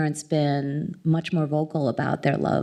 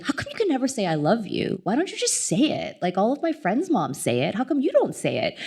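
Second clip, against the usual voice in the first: put-on pleading child; 5 semitones higher, faster than usual. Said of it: "I'm like".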